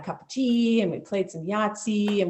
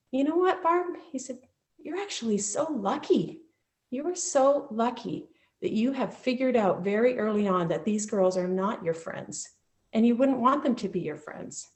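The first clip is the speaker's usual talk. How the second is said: a lightly voiced principal, pitched higher, gentle and reassuring; kind principal; 4 semitones higher than usual. Principal comforting the bullied girl, lightly voiced and reassuring. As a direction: ease her pain like a caring headmaster.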